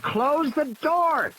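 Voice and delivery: put-on high, slow, insistent boy's order; urgent boy. Tim orders Lex again to close the door. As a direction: drag out the order in frustration. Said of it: "Tim said".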